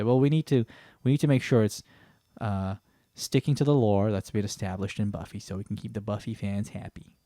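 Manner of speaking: a deliberately bad American accent, pitched a little up; terrible American accent. A mock studio executive in a lightly put-on American accent. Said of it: "this is my very terrible American accent on purpose".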